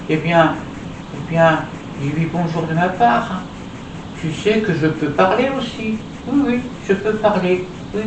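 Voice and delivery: bright eager little puppet. Acted. Puppet Julie begging to return on stage, high doll voice.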